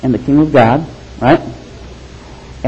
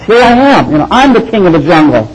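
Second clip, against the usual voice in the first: lion king; 4 semitones higher than usual. Pretend. Preacher voicing a proud lion, raised and bold. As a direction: announce yourself as king of the jungle. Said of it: "It says".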